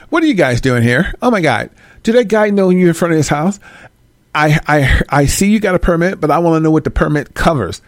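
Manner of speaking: lightly voiced nosy Karen, rising on the complaints; a hint of a prying neighbour demanding answers; mock Karen confronting the film crew; Karen impression. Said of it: "Here come Karen".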